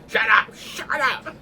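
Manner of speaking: high, drawn-out strained mock shout; imitated yelling. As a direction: yell it slowly twice without full volume. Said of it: "they're yelling at me".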